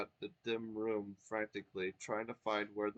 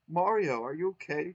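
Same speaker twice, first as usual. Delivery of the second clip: concerned; 6 semitones higher, 8 dB louder than usual. Acted. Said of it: "Twink asked concernedly".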